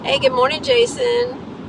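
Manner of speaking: a cheerful falsetto hello to a viewer in chat; high chirpy greeting. Real, not acted.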